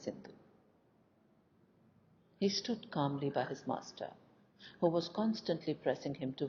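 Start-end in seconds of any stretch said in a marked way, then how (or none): none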